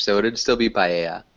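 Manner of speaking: paella as pie-EH-ya, Spanish style; Spanish pronunciation. Shown as a demonstration. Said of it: "We wouldn't change the pronunciation".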